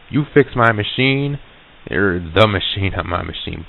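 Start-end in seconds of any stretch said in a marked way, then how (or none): 0.1-1.4 higher, slow disbelieving question; retold dawning disbelief; incredulous question. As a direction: draw it out as a puzzled question. Retold sudden realization, questioning him.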